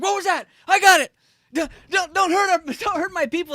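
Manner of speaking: high excited dog voice. Retold or imitated. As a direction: voice the dog, alarmed and protective. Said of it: "He's like".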